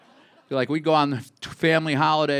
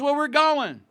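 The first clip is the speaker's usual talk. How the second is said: higher, louder firm decision; decisive dad; 13 semitones higher, 5 dB louder, slower than usual. Retold or imitated. Dad deciding the family goes, high firm voice. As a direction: settle it like a dad who has made up his mind. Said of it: "He goes".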